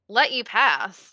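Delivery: scoffing tone. Voicing the captain guy, who is asked to let the party pass: scoffing. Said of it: "he kinda scoffs and he's like".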